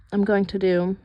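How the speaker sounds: speaking on a held breath; breath held while concentrating; holding breath. Real, not acted. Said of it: "I'm holding my breath".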